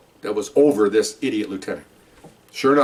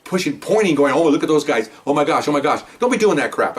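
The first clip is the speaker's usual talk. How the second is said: higher, indignant retelling; angry officer telling off his superiors, higher and heated; heated retold reproach; 3 semitones higher than usual. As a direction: push back hard on the captains. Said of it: "I mean, I'm hot".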